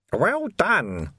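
put-on sly, amused older man; dry knowing voice. A narrator's reading. Mysterious voice behind him.

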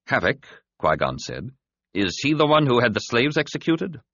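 high, thin alien voice, fading strength; a wounded alien forcing words out; dying alien voice. A narrator's reading.

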